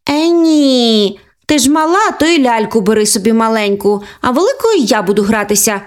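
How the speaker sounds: put-on a touch of a fussy child; lightly bossy refusal; capricious big sister. Older sister claiming the big doll, mildly capricious. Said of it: "знову завередувала старша".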